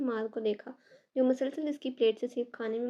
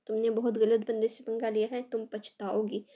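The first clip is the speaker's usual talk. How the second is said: clenched jaw threat; 4 dB louder than usual. Acted. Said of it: "जबड़े खींचते हुए बोला".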